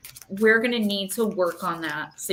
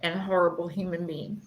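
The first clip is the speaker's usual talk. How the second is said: emotional; 2 semitones lower than usual. Real, not acted. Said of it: "very emotional".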